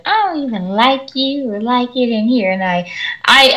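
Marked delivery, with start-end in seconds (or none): 0.1-2.5 higher-pitched mock student complaint; whiny student. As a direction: imitate a student throwing a tantrum. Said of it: "And she's like".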